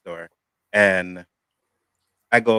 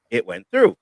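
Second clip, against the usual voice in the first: pitched way up and louder, insisting; indignant retold protest; 12 semitones higher, 7 dB louder than usual. Retelling arguing with the store manager, indignant and raised. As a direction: insist it went through, exasperated.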